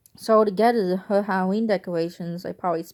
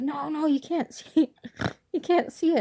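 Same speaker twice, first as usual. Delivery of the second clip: laughing refusal; 9 semitones higher than usual. Retold or imitated. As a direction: refuse while cracking up. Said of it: "I was like".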